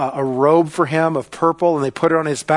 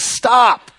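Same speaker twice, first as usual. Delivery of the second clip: sharp, loud, high command to halt; commanding shout; 10 semitones higher, 9 dB louder than usual. Acted. Jesus halting Peter's sword, commanding shout. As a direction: cry out to halt someone at once.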